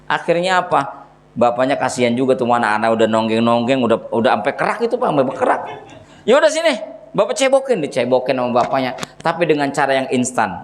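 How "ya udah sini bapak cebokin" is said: grudging father. Retold or imitated. Father gives in.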